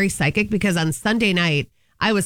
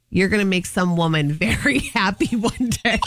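laughing through the quote. Retold or imitated. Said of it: "And he said".

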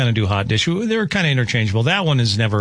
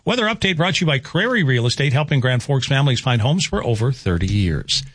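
polished station sign-off; announcer-style radio read; radio sponsor read; 3 semitones higher than usual. Real, not acted. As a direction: deliver the sponsor tag and station ID.

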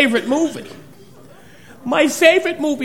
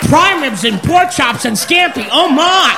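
loud mock Oz chant; lions and tigers parody; 4 dB louder than usual. A comic chanting buffet food like Dorothy in the forest, loud.

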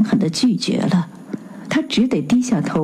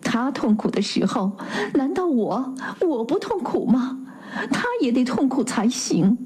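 losing her temper; 4 semitones higher, 4 dB quieter than usual. A narrator's reading. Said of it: "阿娜可发脾气了".

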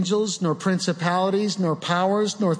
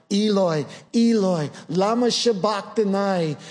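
raised, pleading cry in Aramaic; Christ's cry from the cross; 4 semitones higher than usual. Retold or imitated. Preacher voicing Christ crying out on the cross, anguished raised cry. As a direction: call out to God in anguish, lifted high. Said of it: "He cried out".

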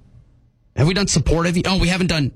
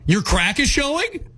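high, slow, questioning sarcasm; attempted sarcasm; 9 semitones higher, slower than usual. Host struggles through sarcastic round, half-successful sarcasm. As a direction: try sarcasm with a raised questioning end. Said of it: "Sarcasm is hard".

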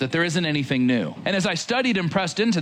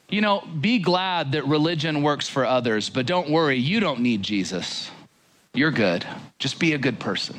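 lightly acted false Jesus, pitched lower; reassuring false Jesus; 3 semitones lower than usual. False Jesus telling listeners not to worry, lightly acted low reassurance. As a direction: lull them with mock reassurance, dropping lower. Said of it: "He sounds like this".

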